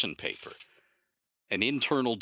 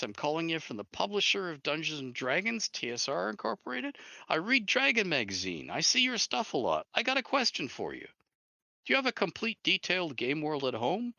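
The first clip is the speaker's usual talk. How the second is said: much higher, lightly imitated American caller; caller's voice; 8 semitones higher than usual. Jeff on the phone asking for Ed, voiced much higher. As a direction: pitch it way up for the voice on the phone. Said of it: "And he goes".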